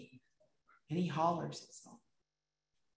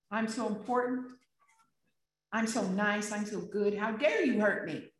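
mock self-importance. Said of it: "Who are we to say".

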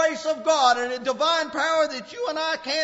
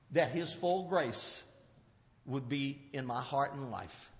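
hushed quoting of Paul; 11 semitones lower, 5 dB quieter than usual. Acted. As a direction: speak Paul's words with quiet awe. Quoting Paul, low and soft.

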